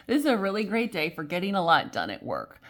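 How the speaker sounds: cheerful reassurance to the viewer; forced positivity. Shown as a demonstration. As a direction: sell it as good news on purpose. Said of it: "We'll stay positive".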